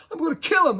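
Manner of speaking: enraged player struggling in the coach's grip, yelling; imitating furious yelling. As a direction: struggle and yell like he's being held back.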